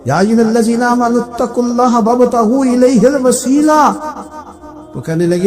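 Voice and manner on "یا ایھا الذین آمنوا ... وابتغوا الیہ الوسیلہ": Quran recitation. Retold or imitated. Daughter quotes Quran verse.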